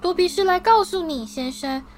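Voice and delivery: high elf voice, sincere and halting; earnest house-elf. A narrator's reading. Dobby struggles to tell Harry, high and earnest. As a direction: plead it out in a squeaky high voice.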